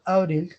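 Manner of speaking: "abril" with a plain tapped R; neutral R. Shown as a demonstration. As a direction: tap the R in "abril" without force. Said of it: "es una R de acento".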